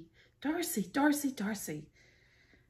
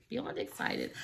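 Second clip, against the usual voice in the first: breathy whispered echo of beyond excited; a whispered afterthought, beyond excited; 6 dB quieter than usual. Real, not acted. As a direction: repeat beyond excited softly to yourself. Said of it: "so beyond excited".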